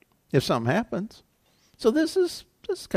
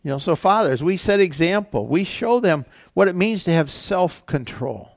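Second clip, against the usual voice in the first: ordinary delivery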